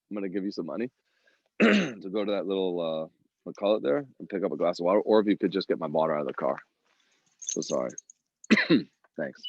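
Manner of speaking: fast, throaty, bug in throat; just swallowed a bug. Real, not acted. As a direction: hurry through a tickly throat. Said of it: "I'm sure you guys have all swallowed a bug".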